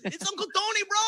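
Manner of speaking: high, loud holler; imitated uncle's yell. Uncle calling to his nephew mid-show, acted high-pitched yell. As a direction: shout it up at the stage.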